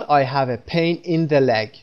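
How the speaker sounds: very slow, with the leg; wrong example, slow. Shown as a demonstration. Teacher showing learners the wrong version, slowly. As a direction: read the mistaken version slowly to mark it wrong. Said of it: "به این صورت نمیگیم".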